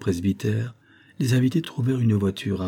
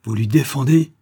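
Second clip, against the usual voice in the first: scornful retort; 4 semitones higher, 6 dB louder than usual. Acted. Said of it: "avec un rire rauque et discordant".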